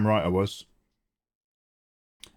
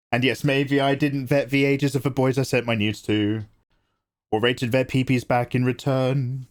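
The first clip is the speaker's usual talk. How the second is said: mock apology video. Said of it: "Miranda Sings".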